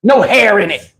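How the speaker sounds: dry sarcastic jab. Retold or imitated. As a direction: say it with a sneer. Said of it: "I'm sarcastic".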